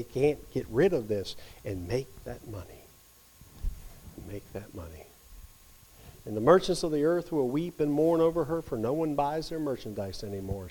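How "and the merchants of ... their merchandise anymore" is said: measured reading of a Bible verse; scripture read aloud. Acted.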